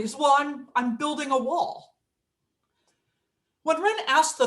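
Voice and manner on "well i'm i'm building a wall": plain, practical answer; matter-of-fact. Acted. Second bricklayer answers the architect, matter-of-fact. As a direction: state it as a simple fact. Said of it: "who responded very matter-of-factly".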